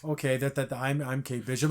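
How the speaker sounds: mock nervous stammer, kept low; super nervous. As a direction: imitate a nervous, halting phone introduction. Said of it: "Like, all super nervous".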